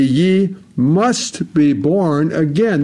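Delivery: slow, weighty stress on "must be born again"; emphatic. Retold or imitated. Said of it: "That is so emphatic".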